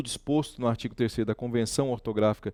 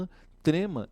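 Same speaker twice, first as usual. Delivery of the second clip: a puzzled "Hã? Trema?", lightly raised; mock disbelief; 5 semitones higher than usual. Teacher voicing a doubtful student, lightly surprised. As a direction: act out a student who can't believe it. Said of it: "Você fala assim".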